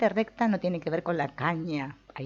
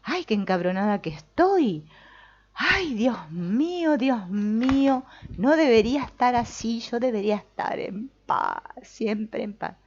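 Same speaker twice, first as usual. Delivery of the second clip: mock whining; 7 semitones higher, 5 dB louder than usual. Teacher mocking a whiny student, high lament. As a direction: wail it like a self-pitying saint. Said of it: "Y no decir".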